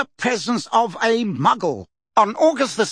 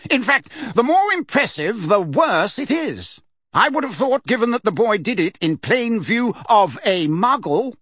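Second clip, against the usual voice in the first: testy; 8 semitones higher than usual. A narrator's reading. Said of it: "said Fudge in a testy voice".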